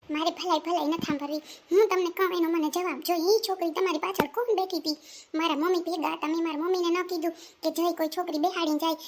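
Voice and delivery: annoyed, insistent demand; angry. Acted. Girlfriend interrogating boyfriend about the girl, angry. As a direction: refuse to be soothed, keep pressing. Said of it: "આટલી બધી ગુસ્સે કેમ થા".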